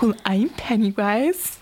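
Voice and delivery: slow, put-on clown introduction; Pennywise. Clown introduces himself to the boy, slow and creepy. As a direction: imitate a creepy clown, drawn out. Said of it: "he's like".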